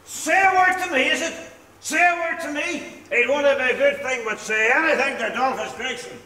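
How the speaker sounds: slurred, swaggering challenge to the whole house; drunken boast. Acted. Drunk husband boasting to the lodgers, swaggering drunken challenge. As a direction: puff up like a drunk daring anyone to cross him.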